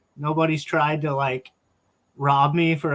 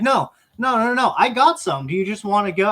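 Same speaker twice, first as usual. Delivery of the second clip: eager junkie voice; 5 semitones higher, 3 dB louder than usual. Retold or imitated. Junkie eagerly offering meth.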